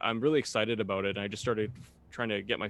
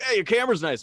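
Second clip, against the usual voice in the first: quoting viewers; 10 semitones higher, 7 dB louder than usual. Retold or imitated. Guest quotes viewers' compliment.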